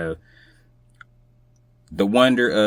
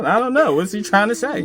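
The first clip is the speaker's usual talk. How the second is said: mock puzzled, higher; confused reader; 13 semitones higher, faster than usual. Guest acting out a reader puzzled by the poem, mock bewildered. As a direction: play a baffled reader scratching their head. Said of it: "I'm like".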